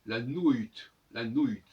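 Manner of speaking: "nuit" dit "nu-ite", le u comme ou; old French "nuit" with an ou sound and a final t; ancienne prononciation. Shown as a demonstration. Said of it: "se devrait se prononcer autrefois". ("nuit" prononcé à l'ancienne, "nou-ite")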